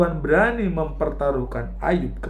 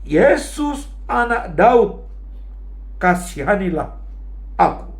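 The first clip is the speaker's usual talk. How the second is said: high raised cry, easing at the end; seruan kencang Bartimeus; 4 semitones higher than usual. Retold or imitated. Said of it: "Bartimeus berteriak sangat kencang". (berseru kencang menirukan Bartimeus)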